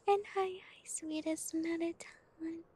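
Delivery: light up at a friend arriving; bright little whispered hi; excited greeting. Real, not acted. Greeting a viewer by name.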